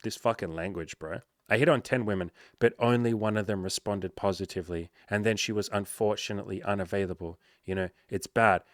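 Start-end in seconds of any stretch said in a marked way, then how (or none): 1.5-8.6 mildly downbeat mock self-criticism; imitating a glass-half-empty account; negative outlook. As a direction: quote someone seeing their result as bad. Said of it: "you're looking at it negatively".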